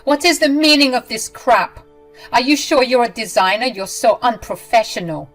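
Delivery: high, loud furious demand; mother-in-law storming in, loud and furious; agitated yelling. Acted. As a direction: yell at her, fed up. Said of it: "yelling, agitated and demanding answers".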